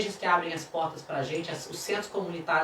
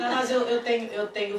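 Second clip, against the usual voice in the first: laughing; 3 semitones higher than usual. Real, not acted. Still laughing.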